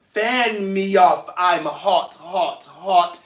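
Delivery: slow, drawn-out attempt at a British accent. Host showing off lyrics to viewers in a playful British accent. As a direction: put on your best British accent, stretching the words. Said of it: "That was my best British accent".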